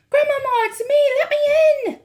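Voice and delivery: loud, high urgent call; shouting. A narrator's reading. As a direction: beg to be let in. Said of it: "I shouted as loudly".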